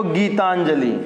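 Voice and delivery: गीतांजलि with weight on the final 'lee'; everyday mispronunciation. Shown as a demonstration. Teacher showing how we usually say it, misplaced stress. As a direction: stretch the end of गीतांजलि. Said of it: "ऐसे बोलते हैं हम".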